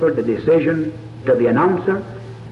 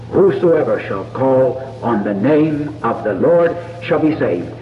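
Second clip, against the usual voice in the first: slower, lower, hushed recitation of the verse; quoting scripture softly; 4 semitones lower than usual. Retold or imitated. Preacher to listeners at prayer, slow hushed verse. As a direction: let the promise settle gently. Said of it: "Because he promised it".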